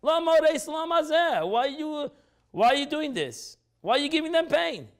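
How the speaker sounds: impassioned plea. Retold or imitated. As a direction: plead with God for his people. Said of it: "he said".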